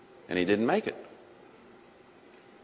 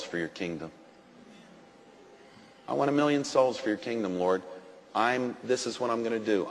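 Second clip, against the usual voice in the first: hushed vow; 3 semitones lower, 5 dB quieter than usual. Retold or imitated. Preacher retelling his vow to God, hushed. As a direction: promise it quietly to God. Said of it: "I said".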